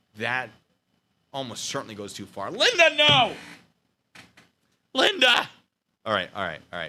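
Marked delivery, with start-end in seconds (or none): 2.5-5.5 shrill, ear-splitting, very high full-volume scream. Speaker reacting to a generous supporter, screaming. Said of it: "Sorry. Screaming".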